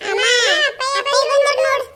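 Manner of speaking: put-on high, loud kid's voice; a little boy calling out that dad's home; child calling out. Child telling mother father has come, high call.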